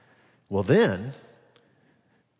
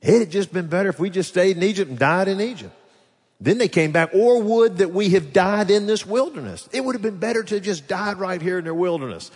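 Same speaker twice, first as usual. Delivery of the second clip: mock exasperated whining; 4 semitones higher than usual. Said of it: "began to get exasperated and said".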